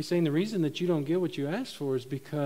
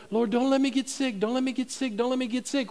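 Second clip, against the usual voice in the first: higher, repetitive mimicked plea; mock pleading; 6 semitones higher than usual. Preacher mimics our prayers against sickness, mock pleading. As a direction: beg over and over in pretend worry.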